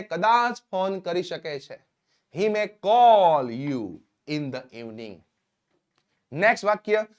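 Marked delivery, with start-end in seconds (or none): 2.4-5.1 very slow, word by word, for learners; slow dictation. Shown as a demonstration. Teacher to students, slow clear dictation. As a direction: spell it out slowly so students can write. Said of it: "teacher dictates English model sentence".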